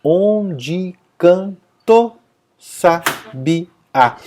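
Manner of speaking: slow beats, "canto" said as "can-to" with "ta o" fused; merged poetic syllables. Shown as a demonstration. Teacher showing scansion, "Onde canto sabiá" syllable by syllable with fused "to". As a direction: space out "Onde canto sabiá", making "ta o" one "to". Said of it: "quando a gente declama esse poema".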